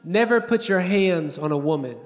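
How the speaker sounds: mild imitation of dad's earnest counsel; fatherly advice. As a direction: give a hint of a solemn father. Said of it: "He'd be like, "Son".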